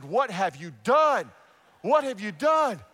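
loud, drawn-out astonished question; loudly retold disbelief; stunned nurse. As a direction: imitate a stunned nurse, stretching DONE. Nurse stunned at revived patient.

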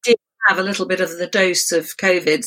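hoarse, croaky throat. Real, not acted. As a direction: speak through a sore throat. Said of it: "I'm sorry for my croaky voice".

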